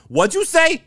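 high, loud Massachusetts mom; Massachusetts accent. Retold or imitated. Mom challenging her kid, loud Massachusetts accent. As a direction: shriek it in a mock Massachusetts accent. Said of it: "Massachusetts accent".

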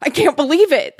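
high, loud disbelieving delight; excited cry. A narrator's reading. Girl hugging a struggling Becca, excited cry. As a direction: cry out as if overjoyed. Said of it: "the girl cried".

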